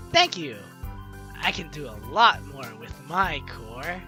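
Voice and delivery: loud, showy flirting; hammed-up suave reply. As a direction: play the smooth flirt, punching LOT. Player acting out flirty reply options.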